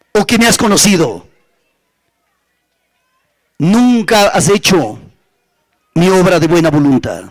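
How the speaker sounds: solemn divine reproach, measured with long pauses; preacher voicing God's stern judgement; the Lord reproving. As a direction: pronounce sentence phrase by phrase, letting each sink in. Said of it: "Él le dice".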